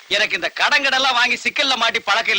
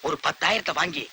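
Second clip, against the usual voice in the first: low, hushed self-talk; muttering to himself; 8 semitones lower, 8 dB quieter than usual. Acted. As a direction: plan privately under the breath. Daydreaming aloud to himself. (தனக்குள் முணுமுணுக்கும் குரல்)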